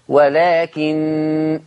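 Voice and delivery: ولكن ending in a long held nasal nun; very slow ولكن with ghunna on the stop; Hafs pause. Shown as a demonstration. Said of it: "النون مشددة".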